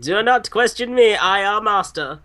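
imperious mock Eastern European; Eastern European accent. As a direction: pull rank in a hammed-up Eastern European accent. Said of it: "acted out by all Eastern European pickup artists".

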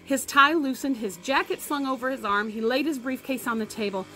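reading a story aloud to the class; lively read-aloud voice; story narration. A narrator's reading. Teacher reads novel to class.

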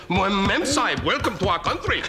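put-on bow and greet in an Indian accent. Guest imitating turbaned greeters in a mock Indian accent. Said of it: "they talk like that 'cause they're all from India".

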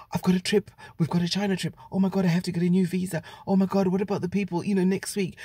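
fast, panicky racing worries; panicked thoughts. Retold or imitated. Racing through worries after losing the passport, rushed. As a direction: let the worries tumble out in a rush. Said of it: "I had so many things thinking".

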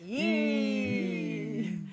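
"Yee." with the widest smile. Shown as a demonstration. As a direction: grin hard through "Yee.". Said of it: "Smile wider".

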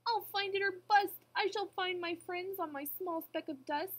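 high, loud determined vow; crying out. A narrator's reading. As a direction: proclaim it as a resolute elephant. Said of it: "cried Horton".

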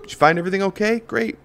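high, bored checkout clerk; flat rote cashier. Retold or imitated. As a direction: rattle it off like a tired cashier. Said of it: "Lackluster checkout".

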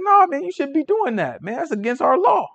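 high, pleading call-out to a brother; imitating a gentle street rebuke; mock rebuke. Rebuking someone breaking the law.

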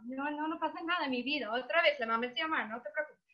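quick, hushed reassurance; imitating a clerk hurriedly calming a child; flustered soothing clerk. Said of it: "la pobre señorita está como".

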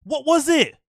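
high-pitched, incredulous demand; exasperated rant. Real, not acted. Streamer demanding to know what that fight was, exasperated.

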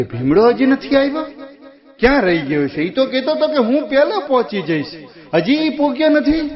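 worried sister. Acted. Valbai worried, waiting for Bhimdo.

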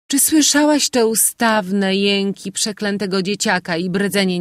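put-on sulky girl grumbling about the noisy night; spoilt daughter complaining. A narrator's reading. Moina complaining to her mother.

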